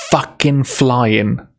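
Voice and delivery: lightly attempted Scottish accent, drawn out. Streamer quoting a misheard Moana lyric, mock Scottish accent. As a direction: say it slowly with a touch of Scottish. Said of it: "in a Scottish voice".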